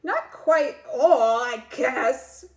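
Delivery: hesitant, slow confession; squirming. Acted. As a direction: squirm out the half-truth. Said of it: "with sort of a squirm".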